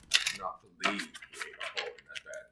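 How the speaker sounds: emphatic, exasperated disbelief; angry disbelief. Real, not acted. Owner breaks off reading about ruined bed, angry disbelief. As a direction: stress it in real dismay. Fuming over dog chewing bed.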